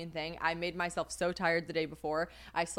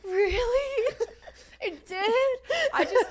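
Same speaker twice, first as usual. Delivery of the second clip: very high, laughing close to tears; overcome, laughing and teary; laugh-crying; 6 dB louder, much slower than usual. Real, not acted. Emotional, laughing near tears.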